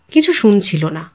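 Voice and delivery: usual speaking voice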